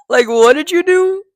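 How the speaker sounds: high, astonished question; can't believe what you just heard; shocked disbelief. Real, not acted. Reacting to claimed shooting.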